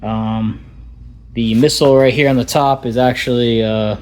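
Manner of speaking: muffled through a helmet mic; talking inside a helmet with speakers; through helmet voice modulator. Real, not acted. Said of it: "this is the audio actually from the helmet".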